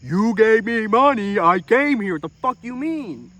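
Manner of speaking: exasperated hot dog man snapping back; indignant. Retold or imitated. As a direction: push back, getting fed up. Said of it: "And I'm like".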